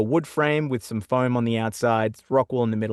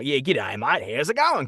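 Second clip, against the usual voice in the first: put-on ocker Australian accent; 2 semitones higher, slower than usual. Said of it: "do an Australian accent and make it sound more ridiculous".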